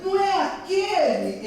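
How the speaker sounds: high-pitched voicing of gossiping ladies; gossiping women. Ladies passing by point out Peter, gossiping voice. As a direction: ask it high, like a nosy onlooker.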